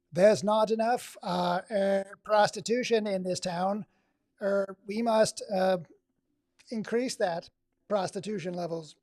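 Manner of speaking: slow, loud glitchy robot voice; malfunctioning robot. Shown as a demonstration. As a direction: stall like a broken robot. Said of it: "It makes it sound like a robot, a malfunctioning robot".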